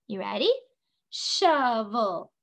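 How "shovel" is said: "Shovel" in two beats: sho-vel; split into syllables. Shown as a demonstration. Teacher showing the class how many parts, "Shovel" syllable by syllable. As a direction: give each syllable of "Shovel" its own beat. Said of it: "How many syllables?".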